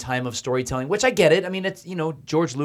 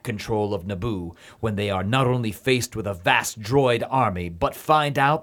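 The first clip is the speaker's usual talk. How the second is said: movie trailer voice; 3 semitones lower than usual. Shown as a demonstration. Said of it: "movie voice to".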